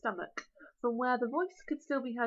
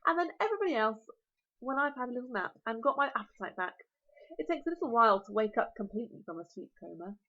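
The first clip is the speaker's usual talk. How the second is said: dragon voice; faster than usual. Acted. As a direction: relish every word like a huge dragon.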